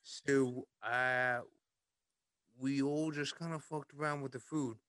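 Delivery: mock-Liverpool storytelling voice; goofy Liverpool accent. Asking friends about Monopoly pieces, in Liverpool accent. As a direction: keep the put-on Liverpool accent going. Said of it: "Liverpool accent the rest of the night".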